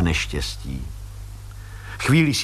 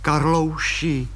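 slow coaxing call; 4 semitones higher, much slower than usual. Acted. Wife coaxing husband.

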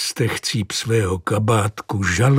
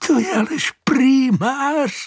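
high, amused giggle through the words; can't hold back a laugh; old charwoman laughing at a joke. A narrator's reading. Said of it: "nemohla zdržet smíchu".

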